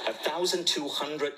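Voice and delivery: acted disbelief at a steep price, drawn out; incredulous echo. Acting out shock at the price.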